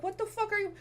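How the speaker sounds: hammed-up exasperation at the mispronunciation; mock annoyed. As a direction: play the outraged commenters. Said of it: "They're like".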